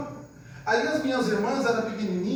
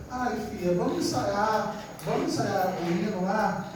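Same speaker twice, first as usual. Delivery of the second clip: soft, sweetly coaxing request; asking with love; 3 dB quieter than usual. Retold or imitated. Mother sweetly asking her daughter to rehearse: softly coaxing. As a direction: coax the daughter to rehearse kindly. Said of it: "você tem que pedir com amor".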